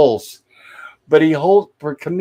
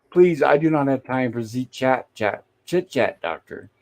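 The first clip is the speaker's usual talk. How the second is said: lightly imitated bad French accent as Gilligan's doctor; a hint of a fake French accent, slowing on chit chat; slower than usual. Host retells Gilligan's fake French doctor brushing off others, bad French accent. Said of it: "Gilligan still doing his bad French accent".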